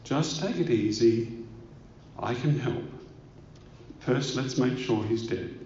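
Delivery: lightly acted reassurance, softly settling; calm, soothing operator. Emergency operator to a panicking hunter, calm and soothing. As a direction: talk a caller down, easy and unhurried. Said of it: "in a calm, soothing voice".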